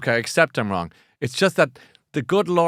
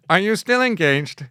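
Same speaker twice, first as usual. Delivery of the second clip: slow, higher-pitched mock bot; helpful bot; 6 semitones higher, 4 dB louder than usual. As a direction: play a bot checking on the reader, drawn out. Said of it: "BookBot is there for you".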